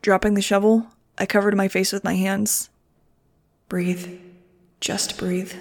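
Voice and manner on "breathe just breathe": breathy whisper to herself; whisper, trying to stay calm. A narrator's reading. Calming herself at breaking point.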